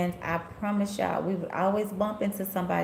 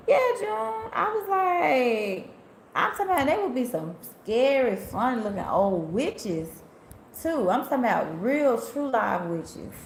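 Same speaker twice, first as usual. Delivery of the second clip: excited rant; 5 semitones higher than usual. Real, not acted. Excited rant about scary witches.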